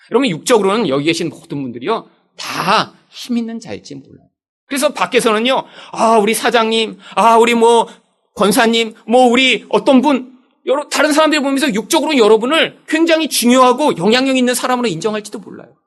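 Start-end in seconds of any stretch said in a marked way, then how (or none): 5.9-10.4 louder, drawn-out flattering titles; flattering praise. Retold or imitated. People outside praising an important member, fawning and louder. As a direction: lay on the praise like a fawning admirer.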